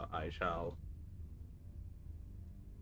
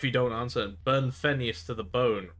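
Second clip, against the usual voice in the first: pirate castaway; 3 semitones higher, 4 dB louder than usual. Acted. Angry castaway voice on comlink.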